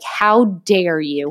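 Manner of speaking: slow, indignant mock glare voice; offended dog. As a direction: drag out an outraged how dare you. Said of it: "she stares at me like".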